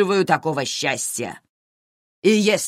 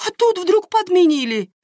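high, louder outraged complaint; exasperated; 5 dB louder than usual. Acted. A wife complains her husband changed, high outraged wail. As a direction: wail it in disbelief.

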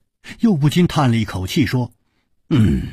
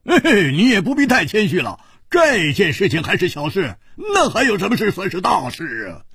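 booming laugh; 8 semitones higher than usual. A narrator's reading. Hu Tiehua teasing his modest friend, hearty laughter. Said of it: "胡铁花大笑着说".

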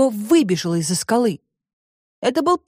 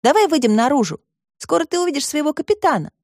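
put-on higher, light girl's voice; girl Alice; 7 semitones higher than usual. A narrator's reading. Alice invites the robot outside, higher girl's voice. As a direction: coax the robot gently in a higher voice.

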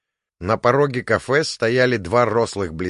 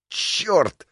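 sharp high cry of pain; high pained yell; sudden yelp; 9 semitones higher than usual. A narrator's reading. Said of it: "резко завопил".

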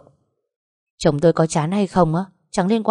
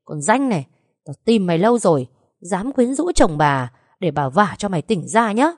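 ringing scolding; 2 semitones higher than usual. Acted. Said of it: "tiếng chị Trâm vang lên".

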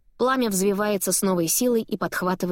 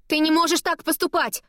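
high shout chasing after him; shouting again; 9 semitones higher than usual. A narrator's reading. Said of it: "снова кричу я".

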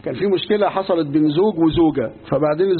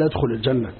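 gentle invitation; 6 semitones lower than usual. Acted. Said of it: "قال".

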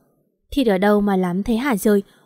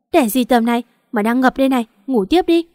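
lightly acted dismissive husband, raised pitch at the end; 2 semitones higher, 4 dB louder than usual. Husband woken to drive his wife to hospital, dismissive. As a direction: brush her off, a little louder. Sleepy husband refuses to get up.

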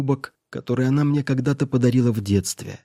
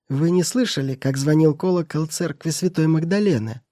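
put-on sly old woman; 5 semitones higher than usual. Spiteful housekeeper hints.

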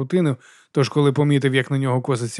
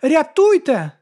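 high, louder cry of rescue me; shout for help; 13 semitones higher, 5 dB louder, much slower than usual. A narrator's reading. Man on the ground crying out to passers-by, high and loud. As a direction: yell it out for help.

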